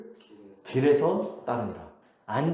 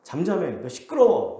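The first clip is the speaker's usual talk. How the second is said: mock crowd telling someone off; retold scolding; 3 semitones higher than usual. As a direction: hush him with mild annoyance. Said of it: "많은 사람들이 꾸짖어요".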